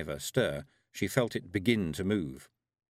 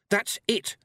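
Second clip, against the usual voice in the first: high, louder cry of realisation; excited shout; 12 semitones higher, 4 dB louder than usual. A narrator's reading. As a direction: shout out that you've got it. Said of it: "shouted Tiffany".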